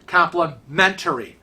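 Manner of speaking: "complimentary" with the weight on MEN-tuh-ree; stress on mentary. Shown as a demonstration. Reminding self of the right way, "complimentary" stressed on MENtary. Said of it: "the heaviness is on the mentary".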